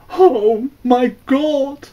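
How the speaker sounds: high, loud cry of horror; harsh cry. A narrator's reading. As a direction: shout out in shock at the sight. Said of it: "the brother cried harshly".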